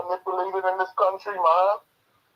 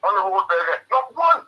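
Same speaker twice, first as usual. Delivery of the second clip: heated outburst; 5 semitones higher, 5 dB louder than usual. Real, not acted. Caller venting anger on radio.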